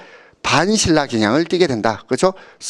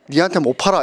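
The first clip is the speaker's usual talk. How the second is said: refusal; 3 semitones higher than usual. Retold or imitated. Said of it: "이렇게 말합니다".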